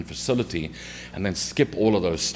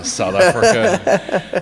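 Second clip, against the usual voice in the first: laughing; 13 semitones higher, 8 dB louder, much slower than usual. Real, not acted. Laughing while naming home country.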